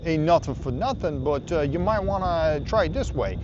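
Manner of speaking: butchered attempt at a Boston accent. Camper imitating the helpful neighbor giving advice, rough Boston accent. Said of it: "the awesome accent".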